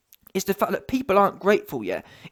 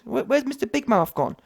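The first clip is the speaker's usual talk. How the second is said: usual speaking voice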